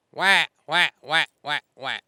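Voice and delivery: loud aggressive vocal quacks; loud hail quacks. Shown as a demonstration. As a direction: belt the whacks out loud and aggressive. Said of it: "You want it to be loud".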